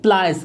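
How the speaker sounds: प्लास as "PLY-ers"; correct pronunciation. Shown as a demonstration. Teacher answers own question, प्लास said "ply-ers". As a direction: glide from "ai" in प्लास. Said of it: "वो होता है क्या?".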